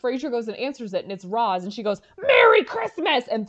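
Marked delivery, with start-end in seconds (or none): 2.2-3.2 high, loud, drawn-out holiday greeting; slow festive shout; cheery yell. Retold or imitated. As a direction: belt it out as she throws the present in. Roz bursting in with a gift.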